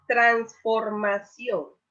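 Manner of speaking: transformación said slowly, syllable by syllable; slow sounding out. Shown as a demonstration. Teacher slowly splits transformación for students. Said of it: "Ahí hay cuatro sílabas".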